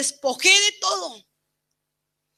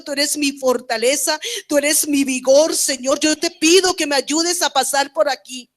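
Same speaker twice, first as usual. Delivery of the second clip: building, louder pleading prayer; fervent prayer; 2 semitones higher, 7 dB louder than usual. Retold or imitated. Woman retells praying to the Lord for comfort, growing fervent. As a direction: call out to the Lord, rising in force.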